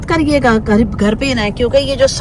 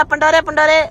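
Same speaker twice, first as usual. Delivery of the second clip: "पंडोरे" in a homely Pindi accent, higher pitched; Pindi-style "पंडोरे", pitched up; 6 semitones higher than usual. Shown as a demonstration. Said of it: "अपना वो कहा ना पिंडी वाला".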